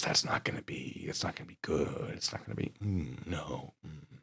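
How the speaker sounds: whispered, very soft; muttering about ghost pepper chips, whispered; whispered dread. Real, not acted.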